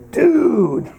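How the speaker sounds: "dude" starting high and falling sharply; varied inflection. Shown as a demonstration. Californian showing tone of voice, high falling "dude". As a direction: punch "dude" high, then drop it. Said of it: "in fifty different inflections".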